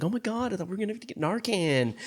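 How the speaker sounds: mock exclamation. Podcaster quoting Alice after the scare, high mock exclamation. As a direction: imitate a girl's oh-my-God reaction. Voicing Alice's shocked comment in film.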